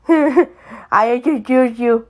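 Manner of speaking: laughing through the words, slow; slow laughing line. Real, not acted. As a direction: giggle it out slowly. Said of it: "she's laughing".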